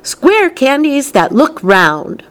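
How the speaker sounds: high, slow proclamation; crying out. A narrator's reading. Wonka unveils the square candies to visitors, crying out. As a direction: announce it grandly, drawing out the words. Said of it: "cried Mister Wonka".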